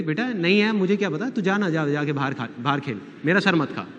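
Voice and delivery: retold mum brushing the child off; mild mock irritation, shooing the kid away; lightly acted fed-up mother; mildly irritated mother. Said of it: "mummy थोड़ी सी irritate हो गई".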